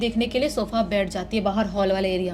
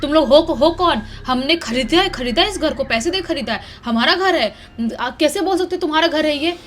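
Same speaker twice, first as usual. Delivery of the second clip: flustered protest; 4 semitones higher than usual. Acted. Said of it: "घबराते हुए बोलती है".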